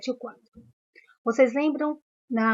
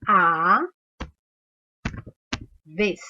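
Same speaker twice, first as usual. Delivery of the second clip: "A" then a long pause before "vez"; syllable by syllable; 3 semitones lower than usual. Shown as a demonstration. Teacher showing pupils how "a vez" splits. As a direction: split "a vez" into two beats. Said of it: "a palavra se separa assim".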